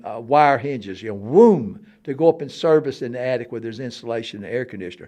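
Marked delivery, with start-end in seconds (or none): 1.2-1.9 loud swooping "whoom"; imitated ladder whoosh. Showing the pull-down ladder, loud imitated whoom. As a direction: swoop out the sound of a ladder unfolding. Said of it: "you pull down a ladder".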